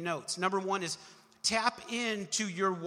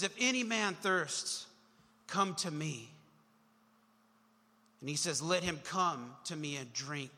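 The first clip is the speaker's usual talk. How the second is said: rising up bold; 2 semitones lower than usual. Retold or imitated. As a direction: stand up and declare it. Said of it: "he just rises up".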